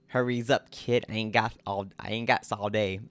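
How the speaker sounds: put-on half-hearted Italian New York accent; badly faked grungy New Yorker, talking out the side of the mouth; terrible New York accent. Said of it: "That was a terrible accent".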